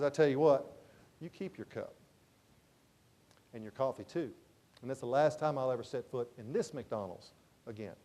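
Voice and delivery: low, hushed, final parting words; quietly fed up. Retold or imitated. Salesman abandoning his coffee at the counter, quietly fed up. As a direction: imitate a customer who is coldly done.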